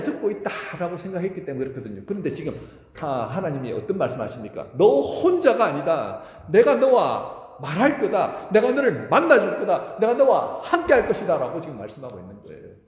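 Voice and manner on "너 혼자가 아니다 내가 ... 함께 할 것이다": loud, slow, ringing proclamation; preacher booming God's words of comfort. Acted. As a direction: proclaim each promise with full force.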